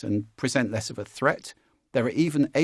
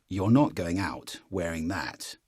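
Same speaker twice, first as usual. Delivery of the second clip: lower, slow from the chest; chest voice scold; 5 semitones lower, slower than usual. Shown as a demonstration. Parent scolding from the chest, coach contrasting. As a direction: land it low and firm. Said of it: "difference in the way those land".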